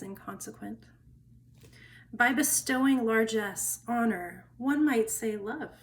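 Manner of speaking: measured poem reading with deliberate pauses; poetry reading. Acted. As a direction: read it as verse, pausing between phrases. Reads a poem aloud.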